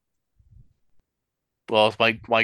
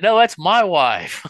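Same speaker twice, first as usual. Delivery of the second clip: louder, much higher, slow mock cry; mock protest; 11 semitones higher, 6 dB louder, slower than usual. Husband claims his wife beside her brother, hammed-up shout. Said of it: "I said".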